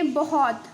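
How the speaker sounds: बहुत said wrong with a drawn-out vowel; mispronounced बहुत. Shown as a demonstration. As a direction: stretch the vowel in बहुत as a mistaken reading. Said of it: "बहुत ऐसे तो नहीं पढ़ता, ये रॉन्ग है". (बहुत का गलत, खिंचा हुआ उच्चारण)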